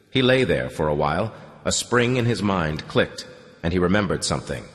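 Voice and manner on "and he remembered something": ordinary delivery, nothing marked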